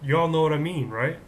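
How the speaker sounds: loud Texas twang on y'all; light Texas accent. Pretend. Host appealing to student viewers, light Texas accent. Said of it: "I can do a Texas accent".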